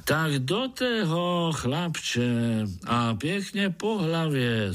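high, slow, kindly mole voice in Moravian dialect; good-natured mole. A narrator's reading. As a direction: ask kindly, like a half-blind old mole. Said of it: "zvolal Krtek".

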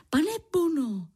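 put-on high, eager child's call. A narrator's reading.

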